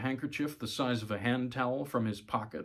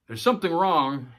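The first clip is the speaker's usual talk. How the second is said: loud, raised-pitch call; 5 semitones higher, 8 dB louder than usual. A narrator's reading. Voter alerts poll worker to a fault, calling out. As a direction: call out that something is amiss. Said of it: "he called out".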